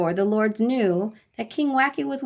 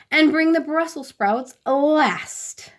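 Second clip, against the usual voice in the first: high, slow kingly command; royal command; 6 semitones higher, 4 dB louder, slower than usual. A narrator's reading. King Wacky commanding the cooks, slow and grand. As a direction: command it with mock majesty. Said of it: "King Wacky commanded".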